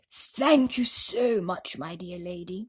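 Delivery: put-on old grasshopper voice. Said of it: "the old green grasshopper said".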